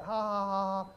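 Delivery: mock go-along laugh at a dirty joke; fake laugh. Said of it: "you can laugh at it".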